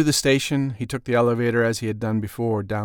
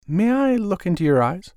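smooth gentleman voice; 9 semitones higher, 3 dB louder than usual. Acted. Mister White voice.

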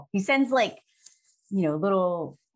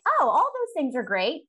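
laughing mock delight; 6 semitones higher than usual. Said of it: "And now I'm like".

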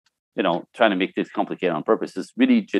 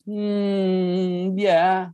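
a higher drawn-out hmm that means no; mock reluctant yes; 8 semitones higher than usual. The girlfriends hear the wife's reluctant, lightly imitated hmm yeah. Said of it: "Every girl in the room heard".

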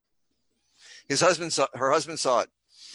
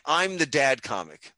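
dad comic; slower than usual. Acted. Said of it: "Someone to walk up going".

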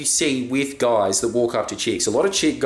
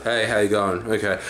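low-key greeting; 5 semitones lower than usual. Retold or imitated. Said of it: "you're just like".

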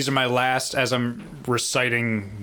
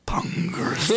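Kirk yelling at Khan; 5 semitones higher than usual. Pretend. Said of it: "like Kirk yelling at Khan".

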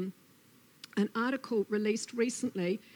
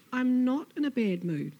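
slightly raised, firm storybook denial; protesting Snake; 4 semitones higher, 4 dB louder than usual. Acted. Snake corrects meddling Lizard, mildly indignant. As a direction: insist on it as a put-out snake. Snake denies bad mood.

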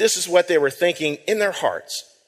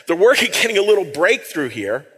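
pun with a laugh. Shown as a demonstration. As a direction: laugh at working, breakthrough rising at the end. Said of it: "Yeah, double meaning there".

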